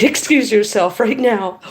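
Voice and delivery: insistent mock order to leave; firm dismissal. Woman done being nice to intruder, firm dismissal. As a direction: drop the niceness and order them off. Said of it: "I was being decently nice to start with".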